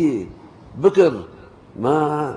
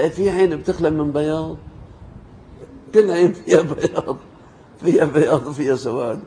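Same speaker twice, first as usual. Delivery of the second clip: louder, higher husband scoffing; exasperated retort; 4 semitones higher, 4 dB louder than usual. Retold or imitated. Husband scoffing at his wife, louder and higher. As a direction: scoff at the obvious, raising the voice.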